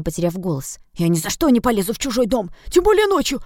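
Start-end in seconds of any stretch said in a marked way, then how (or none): 0.9-2.5 higher, rising into a squeak; getting squeaky. Acted. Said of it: "С каждой фразой его голос становился всё писклявее". 2.7-3.4 much higher, louder squeak; squeakier. Acted. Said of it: "С каждой фразой его голос становился всё писклявее".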